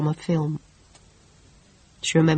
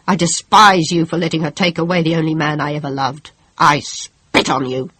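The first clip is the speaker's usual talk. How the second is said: building louder, furious accusations; bitter rage; 4 dB louder than usual. Acted. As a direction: spit hatred at God. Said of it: "Her last words were so loud".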